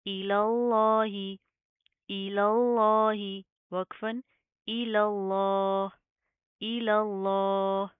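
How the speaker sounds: इलल्लाह with a thick, full lam, slow and loud; heavy Allah. Shown as a demonstration. Teacher recites Allah with the heavy lam for the class. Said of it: "लफ्ज़ अल्लाह को हम मोटा पढ़ेंगे".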